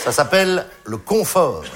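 "confort" said slowly, leaning on the first syllable "con"; slow down and let "con" land as a joke; a knowing pause on "confort", with "con" stressed; slow pointed delivery. Shown as a demonstration. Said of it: "la première syllabe est très claire".

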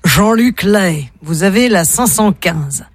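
slow, solemn welcome, lightly acted; Saint Peter. Gatekeeper of paradise assigning a room, lightly solemn. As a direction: announce it slowly, like a heavenly gatekeeper. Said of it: "devant Saint-Pierre qui dit".

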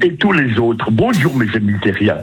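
Bill voice. Acted. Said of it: "il recommence".

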